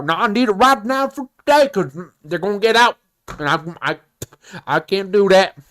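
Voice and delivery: lightly put-on country customer. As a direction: protest with a hint of country twang. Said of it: "the country voice".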